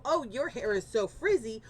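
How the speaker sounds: slightly snide, put-down tone; lightly voiced unkind comment; mock insult. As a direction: say it like a mean remark to a stranger. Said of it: "Would you go".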